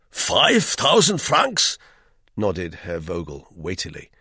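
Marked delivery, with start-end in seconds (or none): 0.1-1.8 high, loud, slow and ponderous; weighty German guest. A narrator's reading. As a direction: pronounce every word with heavy importance. Herr Vogel speaks weightily.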